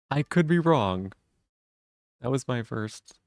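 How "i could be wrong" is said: teasing drawn-out. Pretend.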